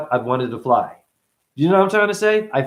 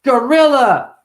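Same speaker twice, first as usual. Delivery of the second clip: put-on little kid voice; 11 semitones higher, 9 dB louder, slower than usual. Voicing child answering.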